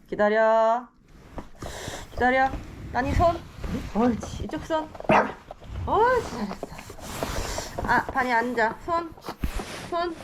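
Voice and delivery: firm commands to a dog; talking to a dog. Real, not acted. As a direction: tell the dog to wait and give paw. Training dogs with commands.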